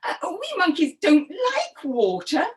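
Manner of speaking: high, hesitant monkey; lightly acted monkey hesitation; unsure. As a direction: stammer doubtfully to a friend. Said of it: "Monkey wasn't sure at first".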